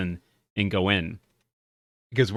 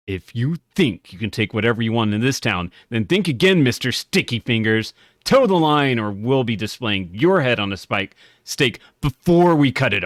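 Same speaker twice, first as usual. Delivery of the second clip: tough guard. Acted. Reading the guard's threat.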